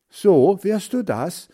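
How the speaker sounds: high, loud challenge; calling out. A narrator's reading. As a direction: shout it as an angry challenge. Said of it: "rief Hans Frieder". (herausfordernd gerufen)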